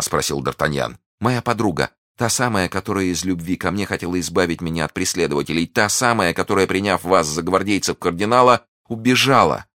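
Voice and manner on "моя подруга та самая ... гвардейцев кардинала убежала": put-on young heroine, earnest. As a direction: explain earnestly in a lifted voice. Voices the heroine.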